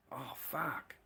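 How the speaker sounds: soft unvoiced whispered oh fuck. Real, not acted. Describing a partner in G-strings, an awed whisper. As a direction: breathe it out, awestruck, barely voiced.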